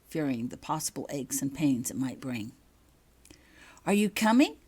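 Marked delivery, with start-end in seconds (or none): 3.8-4.6 a pushy, impatient hurry-up. A narrator's reading. Becky impatiently urging Holly to leave the dorm, pushy hurry-up. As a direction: hurry her along, out of patience. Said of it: "Becky said impatiently".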